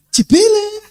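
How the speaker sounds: high mocking coo; mock flatterer. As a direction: tease in a high sweet flattering voice. Mimics flatterer, high pitch.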